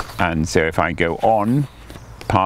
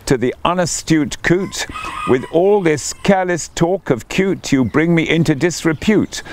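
mild mock roar; 8 semitones higher than usual. A narrator's reading. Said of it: "roared the newt".

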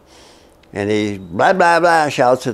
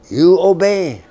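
interrogator's command; 7 semitones higher, 4 dB louder, slower than usual. Retold or imitated.

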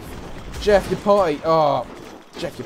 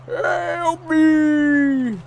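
mock plea; 11 semitones higher, 4 dB louder than usual. Goat begging in game.

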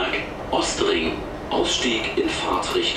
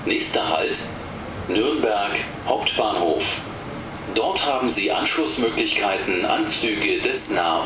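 over the intercom. Real, not acted. Recorded train stop announcements.

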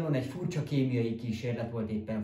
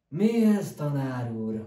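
eager question; 3 semitones higher, 7 dB louder, slower than usual. Acted. Boy asks about experiment.

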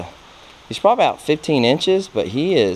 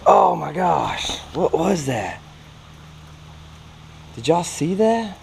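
excited; 5 semitones higher than usual. Real, not acted. Fighting a fish on the line.

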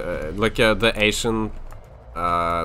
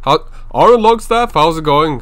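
excited greeting; 9 semitones higher, 11 dB louder than usual. Real, not acted. Greeting a chat viewer.

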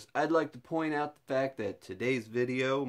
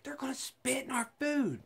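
put-on girlfriend's worry; 14 semitones higher, 5 dB quieter than usual.

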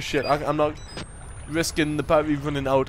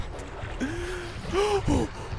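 frightened gasp; 13 semitones higher, 7 dB quieter than usual. Real, not acted. Sees eyes in the dark.

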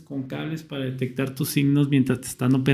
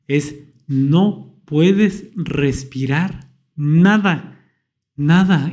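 very slow, strained stretch on "nada"; dragged out; much slower than usual. Real, not acted. Telling a friend about waking unable to breathe, slow and strained. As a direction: draw it out as if short of air. Describing not being able to breathe.

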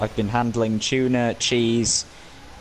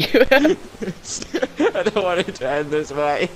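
mock dramatic; 8 semitones higher, slower than usual. Mock dramatic death lament.

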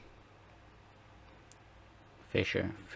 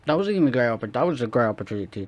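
frustrated rant; 3 semitones higher, 9 dB louder, much faster than usual. Real, not acted. Moaning at a missed opportunity, frustrated rant. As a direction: vent about the wasted chance. Complaining about a missed chance.

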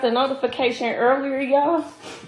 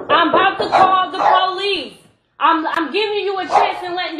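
threatening shout; 4 semitones higher than usual. Real, not acted. Woman threatening boy at her door.

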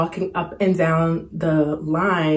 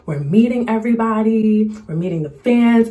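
lightly voiced excited actor, pitched higher; imitating the actor; 5 semitones higher than usual. A hint of an actor greeting fans on camera. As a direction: hype it up like filming for fans. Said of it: "He was like".

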